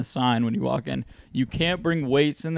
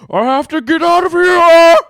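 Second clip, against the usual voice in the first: hammed-up overheated man, laughing through it; mock overheated moan; 14 dB louder than usual. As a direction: whine it out like you're melting.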